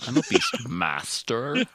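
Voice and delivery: slow, creaky vocal fry. Shown as a demonstration. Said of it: "I learned how to vocal fry".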